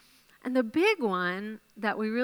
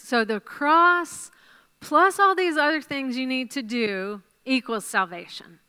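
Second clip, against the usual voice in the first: mock preacher, a touch louder; mock false gospel; 3 semitones higher, 5 dB louder than usual. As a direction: spell out the false formula. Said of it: "that's not what the Bible teaches".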